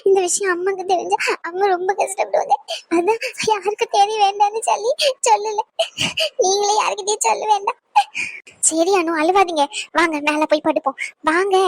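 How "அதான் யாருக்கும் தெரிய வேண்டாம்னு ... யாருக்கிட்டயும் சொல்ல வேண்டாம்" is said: crying. Acted. Anu explains while weeping.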